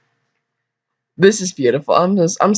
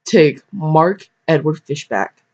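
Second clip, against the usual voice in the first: preacher voice; slower than usual. Pretend. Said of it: "Give my preacher voice".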